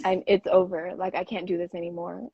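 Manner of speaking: imitating a calm announcement; composed retold breakup speech. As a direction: retell it calmly, measured and final. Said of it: "she came up to me so calm".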